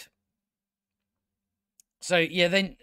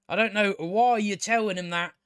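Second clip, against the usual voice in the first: louder exasperated; 4 semitones higher than usual. Real, not acted.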